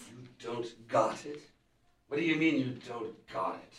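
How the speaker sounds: can't believe what he hears; incredulous. Acted. Villain incredulous at news.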